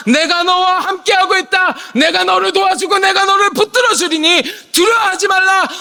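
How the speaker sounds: thundering proclamation. Acted. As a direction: declare each promise like a prophet. Proclaiming God's words at full force. (하나님의 음성으로 외치듯 선포)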